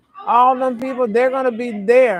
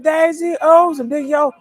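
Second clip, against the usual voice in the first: lightly raised, sing-song put-on voice; high put-on voice; 5 semitones higher than usual. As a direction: keep it pitched up like a different person talking. Voice in a long run.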